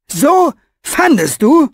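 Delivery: high, loud indignant shout; bursting out in disbelief; loud outburst. A narrator's reading. Old author exploding at Orpheus, loud. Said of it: "Fenolios Stimme wurde so laut".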